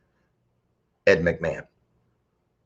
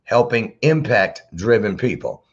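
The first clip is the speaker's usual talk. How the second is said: impact-driven drawn out slowly; slow emphasis; slower than usual. Shown as a demonstration. Host repeating bio phrase for the audience, slowly stressed. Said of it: "Listen at that".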